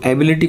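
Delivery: एबिलिटी with the stress on the "bi" syllable. Shown as a demonstration. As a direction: lean on the "bi" in एबिलिटी. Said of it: "बी के ऊपर stress देते हैं".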